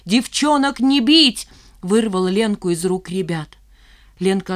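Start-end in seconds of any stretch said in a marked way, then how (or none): 0.1-1.5 loud, higher battle cry; shout. A narrator's reading. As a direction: charge in shouting. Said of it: "с криком".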